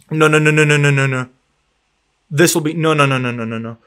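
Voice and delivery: repeated anguished no, fading; sinking despair; despairing no's. Real, not acted. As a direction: groan out the denials. Goal ruled offside, despair.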